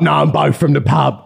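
lightly voiced bloke from the pub; a hint of an older relative's voice; put-on older man's voice. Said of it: "doing the voice, it's really hurting".

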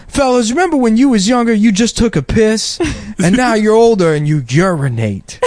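hammy Steve Harvey bit; Steve Harvey impression. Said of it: "he has one special where he's talking about".

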